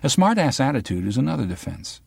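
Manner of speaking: a hint of a sharp young reporter; the girl from the news. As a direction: probe him like a pushy journalist.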